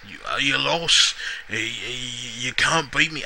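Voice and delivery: put-on halting Irish accent that slips into Scottish; shaky grasp of an Irish accent, stumbling into the words; Sheamus, bad Irish accent. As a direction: attempt a wrestler's Irish brogue, badly. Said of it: "can't do it like a really good Irish accent".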